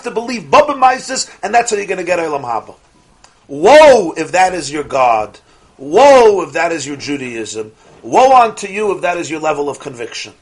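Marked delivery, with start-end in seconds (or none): 3.5-10.3 mock biblical prophet. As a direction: thunder it like a prophet. Rebuking believers in blind faith.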